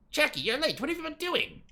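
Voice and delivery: put-on the manager scolding a late girl; scolding shout. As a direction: call out at her for being late. Mino scolds at entrance.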